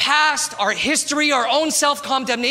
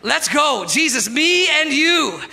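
mock challenge; 3 semitones higher, 3 dB louder, slower than usual. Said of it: "you're like".

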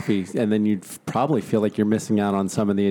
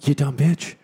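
exasperated dog; 5 semitones higher than usual. Retold or imitated. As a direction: scold her like an annoyed dog. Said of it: "she's just staring at you, being like".

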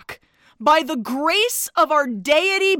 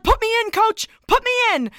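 higher, eager begging; eager plea; 7 semitones higher, faster than usual. Pretend. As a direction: plead like an overeager benchwarmer. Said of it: "He's like".

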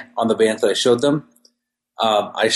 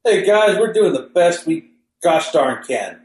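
mock developer voice; 8 semitones higher than usual. Mocking the game developers.

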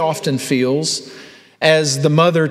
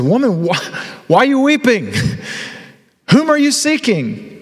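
gentle voice of Jesus; 8 semitones higher than usual. Acted. Risen Jesus speaks to Mary.

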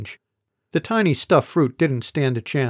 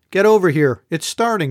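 higher, louder urgent call; insistent; 5 semitones higher, 5 dB louder than usual. A narrator's reading. Ebeth urging the group to come watch, loud and insistent. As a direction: hurry them over, insisting. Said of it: "Ebeth said insistently".

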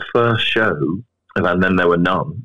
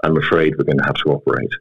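low, grave doctor breaking bad news; sinister doctor voice; 4 semitones lower than usual. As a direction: deliver doom gravely, a hint sinister. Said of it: "in a very sinister doctor voice".

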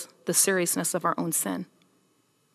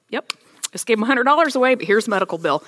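sarcastic inner voice; 4 semitones higher, 4 dB louder, faster than usual. Retold or imitated. Sarcastic self-quote about medical bill.

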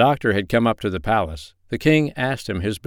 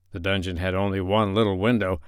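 plain reading voice

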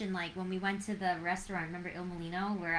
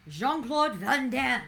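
triumphant reveal; 4 semitones higher, 4 dB louder, slower than usual. Acted. Quizmaster reveals answer.

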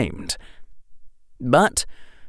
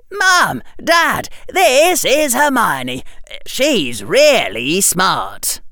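put-on much higher, slow and sunny boy's voice; bright voice; 10 semitones higher, 3 dB louder, much slower than usual. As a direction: chirp it brightly like a sweet child. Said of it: "in that bright voice again".

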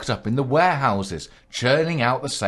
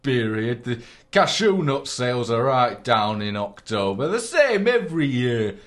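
put-on light Polish accent salesman; a hint of a Polish shopkeeper. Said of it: "my impression of a Polish cashew nut salesman".

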